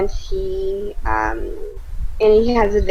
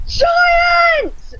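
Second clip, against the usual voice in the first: shrieking high yell, half laughing; the ranger yells to the party, a loud laughing shriek; 6 dB louder than usual. Acted. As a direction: scream the warning at the top of your voice. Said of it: "I immediately yell".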